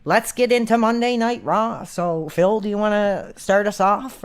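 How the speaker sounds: a hint of a hyped wrestling show intro; mock show host. Imagined guest on Phil's show, lightly hammed-up host intro. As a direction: open the show like a radio host. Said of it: "what I would be like".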